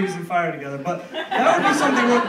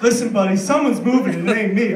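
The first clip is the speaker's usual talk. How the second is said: mock tough guy; 6 dB louder than usual. Threatening the pigeon.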